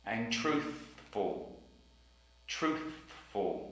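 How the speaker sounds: Truthful said slowly, soft, th at the end blown; Truthful, drawn out; slow careful truthful. Shown as a demonstration. Teacher modelling Truthful slowly. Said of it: "T H sound in the middle".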